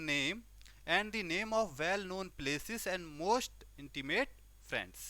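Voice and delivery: each English phrase read out very slowly and deliberately; slow dictation reading. Shown as a demonstration. Teacher reading the remedy text to students, slow dictation. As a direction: dictate the textbook lines word by word.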